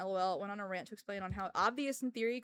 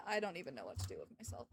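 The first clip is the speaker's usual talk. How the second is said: despairing mutter; 7 semitones lower, 10 dB quieter, faster than usual. Real, not acted.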